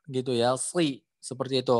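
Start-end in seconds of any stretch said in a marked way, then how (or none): 0.5-1.0 "sli" as a thick emphatic s plus i; shad kasrah tebal. Shown as a demonstration. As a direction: raise the tongue back on "sli". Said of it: "yang benar adalah penyebutannya". ("sli" tebal, pangkal lidah naik)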